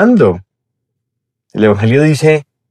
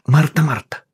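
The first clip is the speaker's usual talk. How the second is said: "Marta, Marta" said much softer, gently; tender call; 3 semitones higher, 5 dB quieter than usual. Shown as a demonstration. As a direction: breathe "Marta, Marta" like a loving reproach. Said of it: "¿Cómo pronunciarías ese Marta, Marta?".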